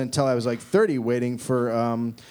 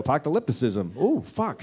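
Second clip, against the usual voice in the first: blurted quickly. Shown as a demonstration. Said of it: "I can't just go".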